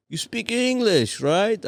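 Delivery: high, slow, gentle question; friendly warden. Retold or imitated. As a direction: coax the answer out kindly.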